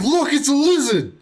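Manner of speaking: high, excited retold exclamation; excited pointing-out. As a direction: announce an amazing sighting to everyone nearby. Retells spotting animals.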